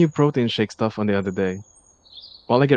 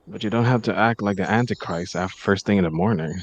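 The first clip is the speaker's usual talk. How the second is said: teasing; 2 semitones lower, 3 dB quieter than usual. Acted. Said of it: "I tease".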